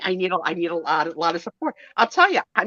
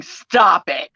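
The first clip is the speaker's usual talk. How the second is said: louder teasing "Stop it"; playful stop it; 5 dB louder than usual. Shown as a demonstration. Friend Jody joking in chat, playful. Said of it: "She's saying".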